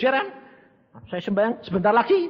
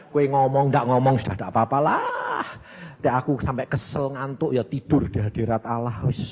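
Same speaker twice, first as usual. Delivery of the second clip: choked, lower voice yielding; tearful surrender; 6 semitones lower than usual. Retold or imitated. Preacher retelling his prayer, choked tearful surrender. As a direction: give up to God near tears.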